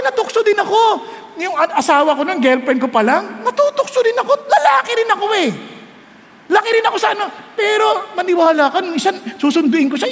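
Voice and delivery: ordinary talk, nothing marked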